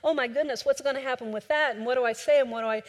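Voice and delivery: mock panic. Preacher imitates people in a storm, mock panicking. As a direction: act out mild panic, question piling on question. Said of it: "We panic. It's like".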